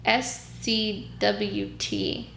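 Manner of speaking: each letter slow and apart; slow spelled letters. Real, not acted. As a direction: spell it out slowly. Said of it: "What is that?".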